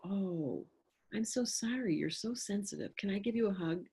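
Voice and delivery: put-on soft, sympathetic comforting of a sensitive child; soothing. Soothing a sad water child.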